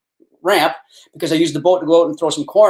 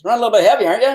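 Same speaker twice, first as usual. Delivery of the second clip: quick, higher-pitched mock accusation; intimidating cop; 5 semitones higher, 3 dB louder, much faster than usual. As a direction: play the big cop needling a suspect. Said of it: "intimidating bastard".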